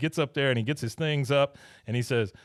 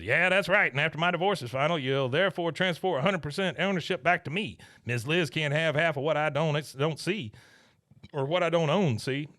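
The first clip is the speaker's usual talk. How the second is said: higher-pitched Southern schemer voice; Buck; 4 semitones higher than usual. Retold or imitated. Boss explains divorce dodge to employee, higher character voice. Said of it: "He goes".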